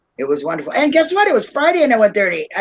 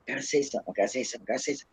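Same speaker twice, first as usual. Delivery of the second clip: imitating inner urge; 8 semitones lower, 13 dB quieter, much faster than usual. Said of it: "I was like".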